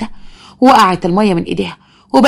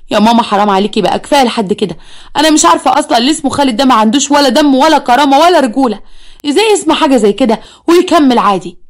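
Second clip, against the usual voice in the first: pleading daughter; 4 semitones higher than usual. Acted. Daughter pleads against mother.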